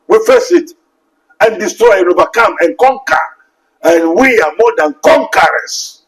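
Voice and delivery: rousing pulpit cadence; fervent preaching. Acted. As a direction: preach it out to the congregation. Preaching at full force.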